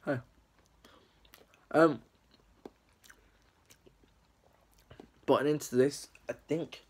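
talking between chews; chewing while talking. Real, not acted. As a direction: mouth partly full of cake. Seen 2: Bites cake at -3s; mouth opens and jaw moves during words.

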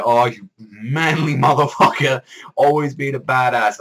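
hammed-up adoring fangirl squeal; mock fan gushing. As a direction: swoon over him like a starstruck fan. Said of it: "I was like".

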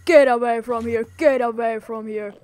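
a loud, shooing command. Pretend. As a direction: get away said loud.

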